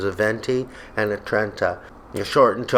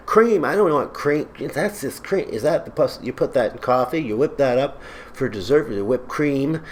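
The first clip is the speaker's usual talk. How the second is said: higher, indignant mock customer; snooty customer; 4 semitones higher than usual. Imitating a coffee snob refusing cream, mock indignant. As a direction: scoff at plain cream. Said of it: "people would go".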